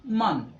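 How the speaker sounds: मन with an open 'a' sound instead of O; open vowel sound. Shown as a demonstration. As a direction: draw out मन with an 'uh' vowel. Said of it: "वो ए की sound देगा".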